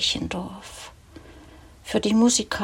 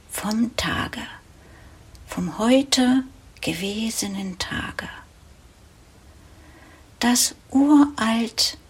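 measured poetry reading with pauses between phrases; poem recitation. Acted. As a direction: recite the evening poem line by line, letting each image settle. Recites a poem about midnight.

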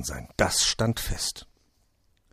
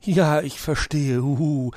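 high, drawn-out owl voice with a hoot; slow, knowing owl reply through a smile; loud, smiling storybook owl; 7 semitones higher, 5 dB louder, slower than usual. A narrator's reading. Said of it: "lächelte der Uhu".

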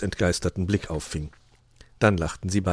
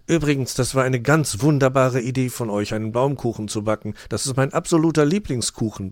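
raised, appreciative thanks; grateful; 5 semitones higher, 4 dB louder than usual. A narrator's reading. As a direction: thank them with real enthusiasm. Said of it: "bedankte sich Dominik".

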